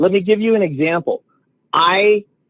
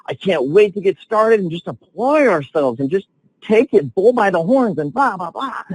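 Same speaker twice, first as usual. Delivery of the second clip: much higher, gushing over the good news; gushing excitement; 7 semitones higher than usual. Retold or imitated. Assistant coach gushing to the film session, excited. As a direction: retell a coworker bursting with excitement. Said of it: "just so excited".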